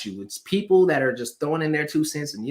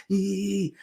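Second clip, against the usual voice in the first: long, high "eee" squeal; imitated running squeal; 5 semitones higher than usual. Preacher mimicking the man running, high drawn-out squeal.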